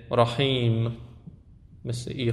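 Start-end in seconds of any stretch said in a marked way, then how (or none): 0.1-1.0 drawn-out EE in رحیم; رحیم with a stretched ee; long i. Shown as a demonstration. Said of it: "و ای کشیده".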